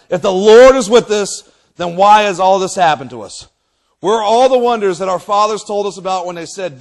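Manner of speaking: loud, forceful scriptural protest; challenging. Acted. Gideon replying to the Lord, loudly challenging. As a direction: demand an answer at full volume.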